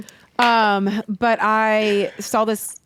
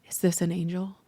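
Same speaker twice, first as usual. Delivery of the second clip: laughing; 3 semitones lower, 8 dB quieter than usual. Retold or imitated. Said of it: "I remember being like".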